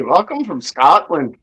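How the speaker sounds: slow, lilting attempt at Irish; Irish accent that sounds like a question. Shown as a demonstration. Showing a friend how Irish would be, slow Irish accent. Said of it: "Irish would be".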